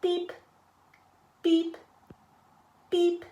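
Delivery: friendly truck's final toots; closing beeps. A narrator's reading. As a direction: toot goodbye like Blue.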